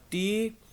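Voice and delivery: टी drawn out on its own; isolated syllable. Shown as a demonstration. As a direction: sound out टी as a separate syllable. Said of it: "ये तीन syllables लगा लें".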